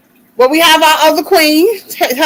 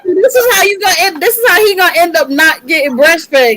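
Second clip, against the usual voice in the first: laughing; 3 semitones higher than usual. Real, not acted. Scolding baby through laughter.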